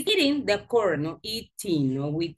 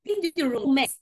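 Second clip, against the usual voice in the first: firm command; 4 semitones higher than usual. Shown as a demonstration. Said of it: "Give a command".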